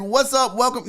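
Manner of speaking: upbeat host intro; show host greeting. Shown as a demonstration. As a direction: greet the viewers like a show opener. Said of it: "I wanna start off by saying".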